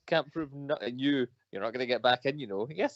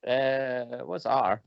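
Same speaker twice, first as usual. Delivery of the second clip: mock radio operator; 4 semitones higher than usual. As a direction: hail the missing friend like a radio operator. Mock radio call to absent friend.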